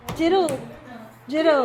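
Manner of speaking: loud repeated call. Real, not acted. Mother calls Jiro again for Papa, loud call. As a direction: shout his name so he hears.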